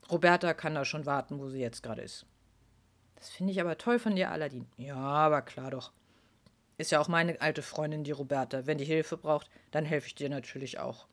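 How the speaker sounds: low, soft kindly big voice; gentle giant. Acted. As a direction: speak like a calm gentle giant. Aladin the helper speaks.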